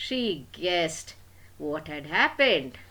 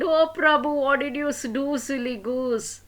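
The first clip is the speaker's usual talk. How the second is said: much higher, louder scolding; exasperated mother; 8 semitones higher, 4 dB louder than usual. Acted. Mother scolding Prabhu about the meat, high and loud. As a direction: throw up your hands at him.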